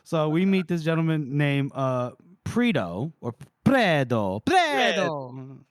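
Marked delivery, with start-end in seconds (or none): 2.4-5.6 put-on hammy Italian accent. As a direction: roll the name with an Italian accent. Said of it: "caught up in the Italian accent".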